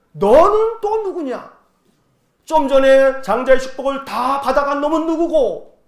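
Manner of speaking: high, loud mock-indignant demand, first words stretched; baffled father. Father confronting the second son to arrive, baffled. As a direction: demand to know who this is. 속은 아버지가 에서에게 따짐.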